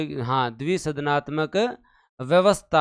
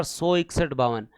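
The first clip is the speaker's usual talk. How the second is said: slow, measured dictation; clear dictation; 2 semitones lower, slower than usual. Shown as a demonstration. Teacher dictates numbers for students to write, slow and clear. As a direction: spell the figures out slowly for note-takers. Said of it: "एकदम clear लिखो एक बार".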